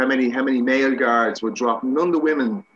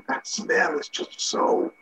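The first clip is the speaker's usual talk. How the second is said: slow, voiceless, acted-out disgust; strained near-gag, drawn out; choked by stench; 3 dB quieter, much slower than usual. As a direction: mimic struggling to speak through a foul smell. Acts out reeling from morgue smell.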